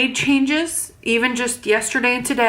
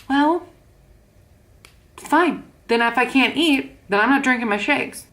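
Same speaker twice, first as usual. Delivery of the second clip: put-on higher, sulky childish pouting tone; childish sulk; 3 semitones higher than usual. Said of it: "taking a childish approach".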